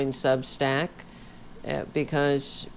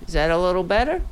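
louder check, pitched up a touch; 4 semitones higher, 5 dB louder, much faster than usual. Real, not acted. Mic check to chat, speaking louder. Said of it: "I'll try to speak louder".

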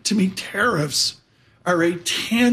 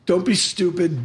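usual speaking voice

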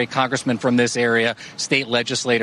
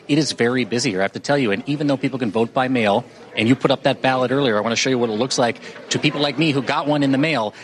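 hushed golf commentator voice; golf announcer voice. Acted. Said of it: "uh, golf announcer voice for just a second".

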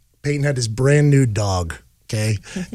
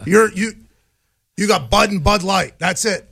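incredulous dad; 5 semitones higher than usual. Retold or imitated. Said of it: "My dad goes".

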